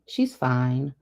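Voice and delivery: measured official reassurance; professional, not unkind. A narrator's reading. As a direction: reassure with understated professional calm. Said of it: "his tone professional, but not unkind".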